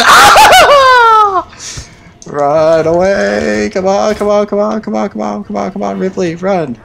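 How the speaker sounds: high panicked yells through laughter; laughing panic. Real, not acted. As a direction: laugh and shout while running. Laughing panic while fleeing.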